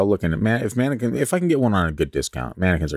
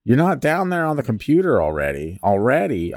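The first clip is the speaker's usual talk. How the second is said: a higher, sing-song scolding mom, raised pitch; hammed-up mother nagging her son, pitched up; 6 semitones higher than usual. Shown as a demonstration. Mom asks if her son is on the computer, pitched-up mock mom scold. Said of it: "I'm trying to figure out how a mom would say it".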